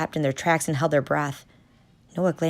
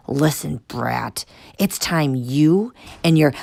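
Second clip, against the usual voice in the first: hiss; 5 dB louder, slower than usual. Acted.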